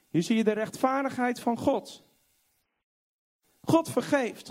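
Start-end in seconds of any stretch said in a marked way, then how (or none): none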